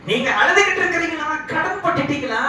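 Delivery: high, pressing questions; concerned angel. Retold or imitated. Angel to a weeping debtor, urgently concerned. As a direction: call out to someone in tears, pitched high.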